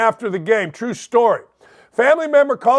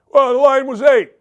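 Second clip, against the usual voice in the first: retold shout; 5 semitones higher, 4 dB louder than usual. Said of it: "retold reply to family member".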